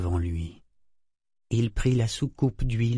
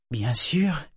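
touched, higher-pitched reply; 4 semitones higher than usual. A narrator's reading. Woman agreeing to help him to bed, touched. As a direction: say it as if moved, pitch lifting. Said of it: "dit-elle touchée".

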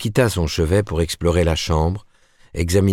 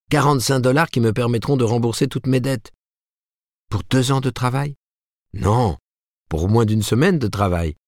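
higher-pitched, eager and proud; excited boasting; 5 semitones higher than usual. A narrator's reading. Martin tells Ruth of his accepted manuscripts, excited boasting. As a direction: bubble over with good news.

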